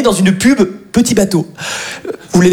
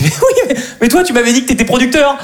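high-pitched, hurried comeback; indignant retort; 5 semitones higher than usual. Acted. Actor to his supposed producer friend, indignant retort. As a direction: throw the blame straight back, indignant.

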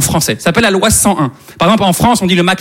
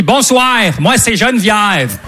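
Québécois woman; slower than usual. Retold or imitated. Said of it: "Elle m'a dit ces mots".

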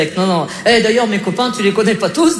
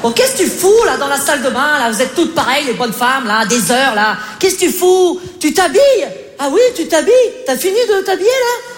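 much higher, impatient calling; calling through the door; 5 semitones higher than usual. Acted. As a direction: yell across to the bathroom. Husband yelling at bathroom door. (appel impatient, plus aigu)

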